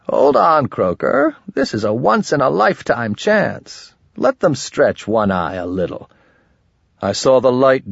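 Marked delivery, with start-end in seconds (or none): 0.1-6.1 high, squeaking goblin voice; squeaky voice. A narrator's reading. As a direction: squeak it out eagerly. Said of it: "He squeaked".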